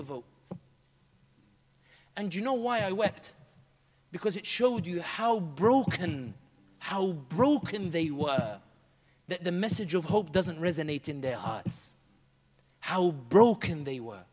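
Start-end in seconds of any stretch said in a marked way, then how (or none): 4.1-14.2 sorrowful. Real, not acted. Grieving over broken people.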